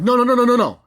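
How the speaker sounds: high, loud mock-panicked protest; freaked out. Executive as the intruder bursts in, freaked out. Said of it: "that's when she freaked out".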